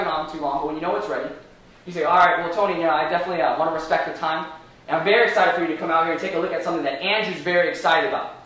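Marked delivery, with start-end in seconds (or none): 2.0-8.3 demo pitch line. Shown as a demonstration. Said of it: "See what I just did?".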